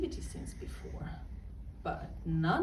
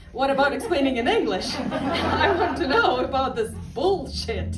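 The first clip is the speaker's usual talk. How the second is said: laughing protest; 6 semitones higher, 7 dB louder than usual. Real, not acted.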